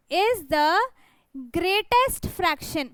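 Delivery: each word drawn out very slowly; slow emphasis. Shown as a demonstration. Teacher drawing out the answer to her students, very slowly. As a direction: stretch out the answer so students catch it.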